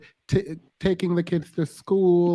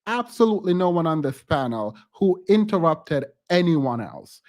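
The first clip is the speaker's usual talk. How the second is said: stern warning. Real, not acted. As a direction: lay down the rule. Host scolds interrupter.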